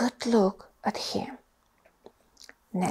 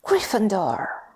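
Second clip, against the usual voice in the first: louder announcing call; hat's shout; 5 dB louder than usual. Acted. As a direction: call out the house for all to hear. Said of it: "the head had shouted".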